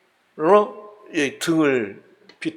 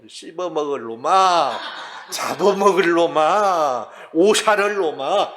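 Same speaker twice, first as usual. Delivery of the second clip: mock cursing mother; 2 semitones higher than usual. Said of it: "무지막지하게 욕을 합니다".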